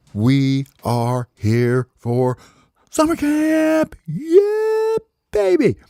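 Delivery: very high, slow squeaky bird voice; proud campers. Acted. Baby birds telling the counselor they came for camp, squeaky. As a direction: announce it with cocky glee.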